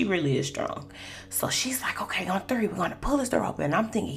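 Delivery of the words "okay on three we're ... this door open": soft, quick, breathy count-off; hushed coworker count. Retold or imitated. Coworker counting down to pry the elevator door, hushed.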